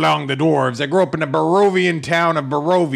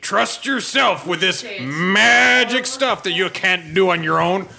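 mocking god; 2 semitones higher, slower than usual. Cleric quoting his god back at him, slow mockery. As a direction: drawl the god's words in mockery. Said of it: "you said".

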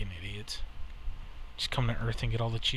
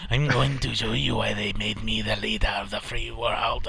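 mock movie hero; 2 semitones lower than usual. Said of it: "You're not that guy".

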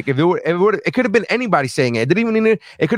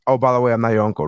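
lower, gentle by the way, I'm not your uncle; polite reveal; 6 semitones lower, faster than usual. Shown as a demonstration. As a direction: say it kindly, no bite. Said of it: "I was okay with him saying".

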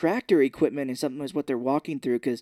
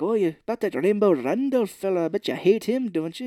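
slightly raised, lilting needle; mock prodding character voice; goading character; 5 semitones higher, 4 dB louder than usual. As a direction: coax him into agreeing. Acting out disguised Irish schemer.

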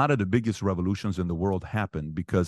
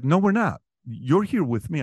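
higher, louder dad's flat refusal; dad insisting; 7 semitones higher, 3 dB louder than usual. Retold or imitated. Father refusing to leave the party, higher and louder. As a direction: plant your feet as the father who won't leave.

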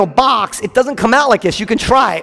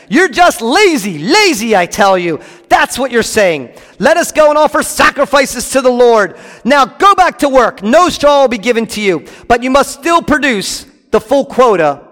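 higher, louder angry king; shouting Pharaoh; 5 semitones higher, 3 dB louder than usual. Acted. Pharaoh yelling at the Israelite foremen, angry. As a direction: lash out at lazy slaves. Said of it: "Pharaoh shouted at them".

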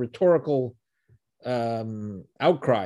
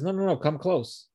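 soft; 5 semitones higher, 4 dB quieter than usual. Retold or imitated. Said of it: "He spoke to them softly".

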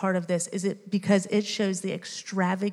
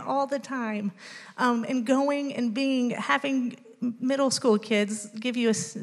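choked up; 3 semitones higher than usual. Real, not acted. Moved testimony, voice rising.

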